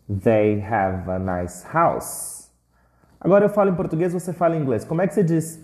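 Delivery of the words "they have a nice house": slow model phrase. Shown as a demonstration. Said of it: "You are students".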